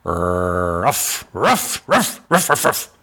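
barking like a dog. Retold or imitated. Professor's film voice turns into imitated dog barking. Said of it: "this guy's barking like a dog".

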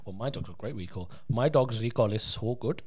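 lightly put-on Asian parent accent, bragging; a hint of a proud Asian parent accent. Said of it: "I love it when you go full Asian".

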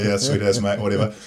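laid-back broad Kiwi shrug; broad kiwi accent. Retold or imitated. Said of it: "I'd be like".

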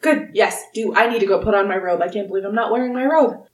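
put-on quick, fussing old gnome voice; a forgetful old host hurrying through worry; flustered old gnome. Wulfric flustered about his robe.

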